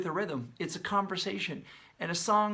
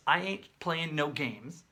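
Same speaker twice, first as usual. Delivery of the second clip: mock cheesy line; slower than usual. Shown as a demonstration. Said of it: "this is the cheesy part".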